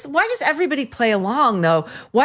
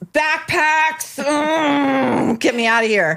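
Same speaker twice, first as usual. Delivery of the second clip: put-on higher, hammy Spanish accent; mock Spanish accent; 5 semitones higher, much slower than usual. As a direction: overdo a fake Spanish accent. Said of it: "She's doing the accent".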